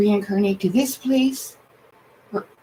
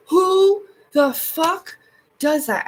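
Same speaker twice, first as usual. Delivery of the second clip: drawn-out outrage; 4 semitones higher, much slower than usual. Real, not acted. Reacting to a creator's grief post, slow outraged disbelief. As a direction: drag it out in disgusted disbelief.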